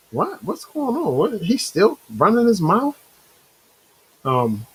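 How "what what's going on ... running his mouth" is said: imitating confused viewers. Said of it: "viewers are like".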